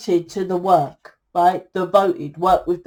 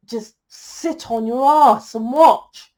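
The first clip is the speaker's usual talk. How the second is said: scolding; 3 semitones higher, slower than usual. Real, not acted. Scolding her lazy audience.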